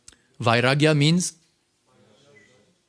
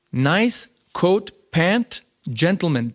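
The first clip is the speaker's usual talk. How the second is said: higher, punching coat and pant; emphatic listing; 5 semitones higher, much slower than usual. Retold or imitated. Quoting the guru listing the proper dress, higher and emphatic. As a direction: spell the outfit out with emphasis. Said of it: "but here he was angry".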